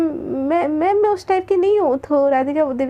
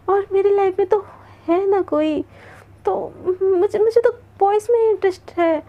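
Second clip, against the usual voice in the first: restless; 4 semitones higher than usual. Acted. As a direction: talk yourself out of it, rattled. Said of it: "उसमें एक बेचैनी आ जाती है".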